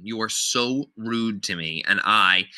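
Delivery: "You are so rude to me" slowed so "to me" is not thrown away; slow, deliberate line with "to me" kept clear; keeping TO ME present. Shown as a demonstration. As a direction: give "to me" its full weight, unhurried. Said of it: "to me." Don't let that disappear".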